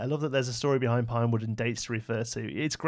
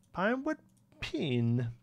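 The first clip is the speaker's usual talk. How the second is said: high rising first word, amused; amused high reading; 7 semitones higher, slower than usual. Pretend. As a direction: say it up high, laughing at the typo. Repeats typo name mockingly.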